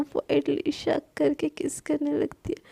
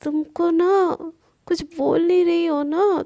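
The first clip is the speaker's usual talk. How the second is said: scolding; 3 semitones higher, 5 dB louder than usual. Acted. Palak grabs Sana's face.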